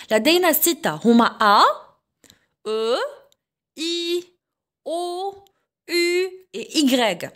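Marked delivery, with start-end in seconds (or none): 1.4-7.3 A, E, I, O, U, Y as long, separate French vowels; teacher sounding out French "A, E, I, O, U et Y" with pauses; vowel demonstration. Shown as a demonstration. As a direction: recite "A, E, I, O, U et Y" one by one, each held steady. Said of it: "نبداو بلي فواييل".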